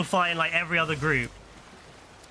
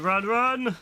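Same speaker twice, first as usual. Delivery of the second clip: higher, gleeful taunting cry; excited shout; 6 semitones higher than usual. Real, not acted. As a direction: chase them down, whooping. Chasing an enemy player.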